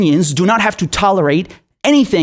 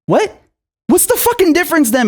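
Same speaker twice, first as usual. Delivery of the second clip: sharply higher disbelieving yelp; incredulous what; 11 semitones higher than usual. Real, not acted. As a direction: react in stunned disbelief. Incredulous reaction.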